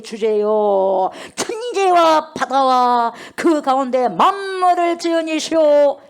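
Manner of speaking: loud, slow, solemn prayer cry; lifted prayer. Retold or imitated. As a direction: call out to God with the whole church. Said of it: "소리를 어째요? 높여 이르되".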